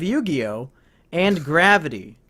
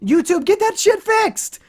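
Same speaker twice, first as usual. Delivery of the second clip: angry shout; 11 semitones higher, 4 dB louder, slower than usual. Real, not acted. Ranting at YouTube's comments.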